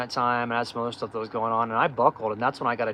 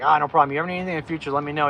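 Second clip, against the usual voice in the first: cocky lawyer; 3 semitones higher, 4 dB louder, much faster than usual. Retold or imitated. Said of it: "He had a major attitude".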